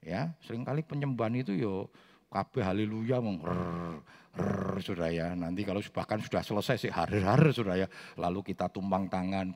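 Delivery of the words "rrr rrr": long rolled rrr in imitation; imitated worship trill. Preacher imitating tired worshippers at haleluya, imitated rolled rrr. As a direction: roll out a droning mock rrr.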